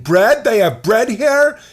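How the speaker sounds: high, loud, incredulous comic bit voice; exaggerated comedian impression; Jim Gaffigan. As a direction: push the questions up high and loud. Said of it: "Jim Gaffigan".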